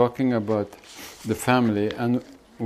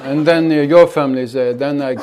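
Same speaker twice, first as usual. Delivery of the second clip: louder hammed-up threats piling up; mock vendetta; 5 dB louder than usual. Teacher plays the next family in the feud, mock rage. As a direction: escalate the feud, half laughing.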